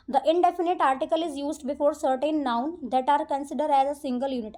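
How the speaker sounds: reads the rule out word by word, very slow; slow rule reading. Acted. Teacher reading the rule to her students, slow dictation. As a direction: dictate it slowly to the class.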